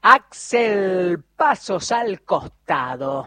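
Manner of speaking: loud, quick back-announce of the playlist; radio announcer. Acted. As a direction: punch out the song list like a live DJ. Radio host back-announcing the songs. (locutor de radio enérgico, anunciando los temas en voz alta)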